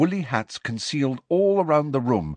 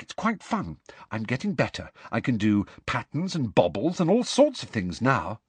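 lightly voiced young girl; 3 semitones higher than usual. Hermione voiced by narrator.

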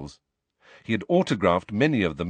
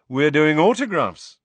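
vain celebrity voice; 6 semitones higher, 6 dB louder than usual. Acted. Lockhart voice.

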